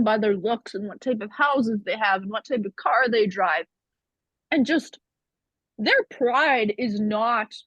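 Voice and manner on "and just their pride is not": talking with a mouthful of pizza; words around a bite of food; mouth full. Real, not acted. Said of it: "I'm sorry, I'm eating pizza".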